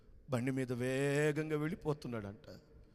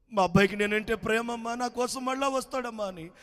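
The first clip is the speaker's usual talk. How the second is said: tearful retelling; 10 semitones higher, 7 dB louder than usual. A narrator's reading. Villager recalling mother's faith.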